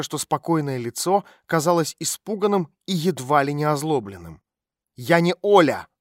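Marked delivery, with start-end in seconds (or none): 4.9-5.9 louder, sharp snap of denial; sharp flare-up. A narrator's reading. Girl startled by a stranger, sharp louder denial. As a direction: bristle and bite back. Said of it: "резко вскинулась она".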